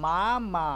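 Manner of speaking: "মা, মা" as two separate beats; syllable by syllable. Shown as a demonstration. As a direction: say "মা", pause, then "মা" again. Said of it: "তার পরের ঝোঁকে আর একবার মা".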